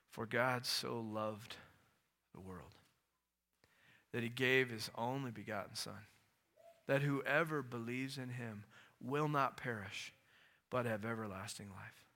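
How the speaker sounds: tender Jesus explaining gently; solemn Jesus. Retold or imitated. Jesus quoting John three sixteen.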